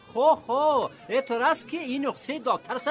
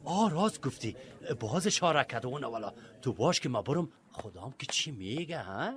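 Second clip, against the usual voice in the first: low, hushed aside; muttered aside; 12 semitones lower, 6 dB quieter than usual. Acted. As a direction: grumble it low, half to yourself. Patient mutters before going to ask. (زیر لب و آهسته)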